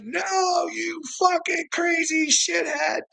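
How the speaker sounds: very high, drawn-out yelled retort; high mock shout; mock outraged crew. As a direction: squeal the insult as a jeering imitation. Voices crew shouting back.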